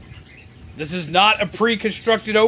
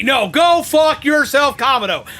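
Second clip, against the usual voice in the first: angry shout; 4 semitones higher than usual. Real, not acted. Streamer cursing the commander, angry shout. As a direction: tell him off in fury. Raging at the game character.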